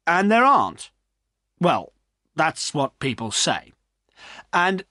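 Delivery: please both sides at once; peacemaking landlord. Acted. Landlord keeping peace among drinkers, lightly voiced.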